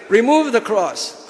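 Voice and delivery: put-on Indian accent. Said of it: "whatever Indian way of speaking".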